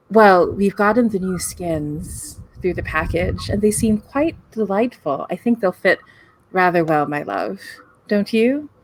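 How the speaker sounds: lightly voiced, blithe small talk about strange things; strangely casual voice. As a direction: say it as if merely discussing the weather. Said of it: "she says in that same strange voice, like, com-, as if she's, like, talking about the weather".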